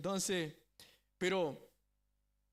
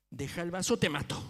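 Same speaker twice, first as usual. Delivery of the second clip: louder menacing hiss in her ear; whispered threat; 6 dB louder than usual. Retold or imitated. Father threatening his daughter at the table, menacing.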